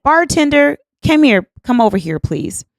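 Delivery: high-pitched summons across a bar; retold loud call. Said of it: "And I'm very loud".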